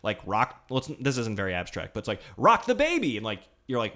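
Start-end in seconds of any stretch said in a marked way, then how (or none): 2.4-3.2 high, punchy game command; game announcer. Retold or imitated. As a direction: call it like a game host.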